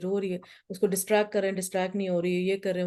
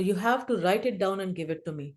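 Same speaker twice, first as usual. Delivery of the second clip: firm instruction; much slower than usual. Retold or imitated. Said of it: "بچوں کو یہ کہا".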